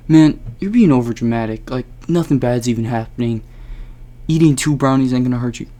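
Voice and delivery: dismissive friend. Retold or imitated. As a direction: wave the worry away.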